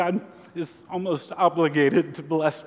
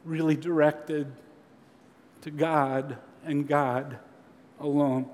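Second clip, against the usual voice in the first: earnest question; 4 semitones lower, 3 dB quieter than usual. Retold or imitated. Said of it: "he's saying".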